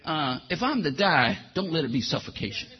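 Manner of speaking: low, soft pleading to the Lord; a whispered plea, low and soft; quiet private prayer. Retold or imitated. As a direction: hush it like a secret prayer. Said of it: "behind the scenes we kinda say".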